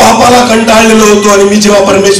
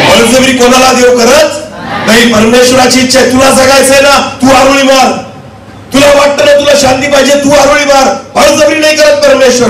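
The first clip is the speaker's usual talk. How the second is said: forceful exhorting sermon voice; impassioned preaching; 8 semitones higher than usual. Acted. Preacher urging listeners to cry out to God, impassioned preaching. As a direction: press the appeal on the congregation.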